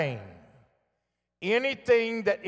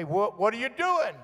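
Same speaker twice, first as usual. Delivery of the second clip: higher-pitched returning call; echo answering back; 5 semitones higher than usual. Retold or imitated. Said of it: "it would say".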